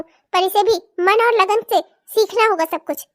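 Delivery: low, resigned giving in. Acted. Mother gives in, resigned.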